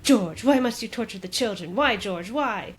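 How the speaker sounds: mock-dramatic wife pleading; Mary. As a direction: implore your husband, hammed up a little. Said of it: "And Mary's like".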